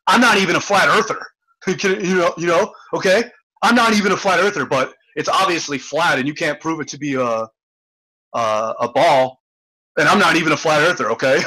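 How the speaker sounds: mock-whiny flat earther, some lines fast; mocking impression. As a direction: poke fun at him while quoting him. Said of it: "he says that he's not a flat earther".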